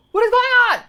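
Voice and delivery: shouted, high-pitched disbelief; frantic retold shout; panicked outburst. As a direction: yell it in alarm, retelling the moment. Retelling her panicked reaction to call.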